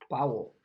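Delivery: Paul said as POW-ul; Paul with an "ow" vowel, falling at the end; Dutch-style Paul. Shown as a demonstration. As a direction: say Paul in two syllables, "pow-ul", firmly. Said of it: "how the Dutch people say".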